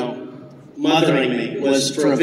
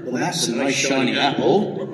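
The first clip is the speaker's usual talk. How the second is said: put-on West Country farmer accent; 3 semitones lower, 4 dB quieter than usual. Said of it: "a recording of a farmer".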